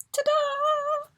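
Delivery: high, loud reveal cry; excited ta-da. Real, not acted. Unboxing the premium box for viewers, a bright excited ta-da. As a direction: present it like a magic trick.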